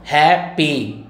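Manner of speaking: हैप्पी split into two beats, HAP then PEE; syllable by syllable. Shown as a demonstration. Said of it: "एक बार हुआ".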